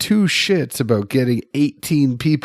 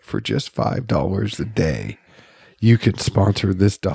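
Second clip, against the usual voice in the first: charity ad voice; 3 semitones lower than usual. Retold or imitated. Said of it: "they're like".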